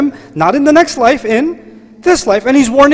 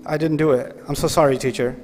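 softer, lower sheepish apology; meek sorry to the teacher; apologetic student; 6 semitones lower, 5 dB quieter than usual. Acted. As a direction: fade away like a guilty kid. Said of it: "And he says".

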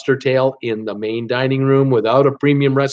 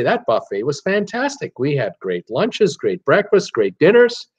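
excited; 2 semitones higher than usual. Retold or imitated. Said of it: "you'll come home and say".

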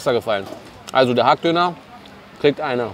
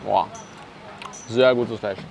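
talking between bites; chewing while talking; 3 semitones lower, 6 dB quieter than usual. Real, not acted. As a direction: mouth partly full of chicken. Seen 0: Bit chicken at -2s; jaw working, lips closed while talking.

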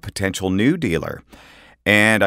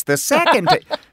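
breaking up laughing mid-read; cracking up while reading; 3 dB louder than usual. Retold or imitated. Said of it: "The first take you'll hear".

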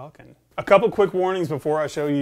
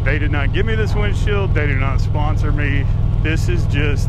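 inside a helmet. Real, not acted. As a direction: voice inside a helmet while riding. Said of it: "wind noise inside my helmet".

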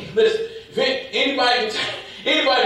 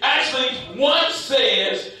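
preaching; 2 semitones higher than usual. Real, not acted. Preaches at full force.

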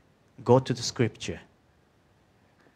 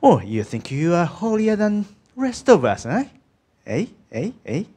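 higher, louder mocking jibe; sarcastic; 8 semitones higher, 6 dB louder than usual. Someone to a believer who seems holier, sarcastic. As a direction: mimic a sneering challenge with taunting ehs. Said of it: "said sarcastically, says".

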